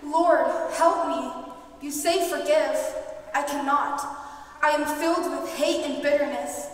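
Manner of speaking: anguished plea. Acted. Anguished prayer for help.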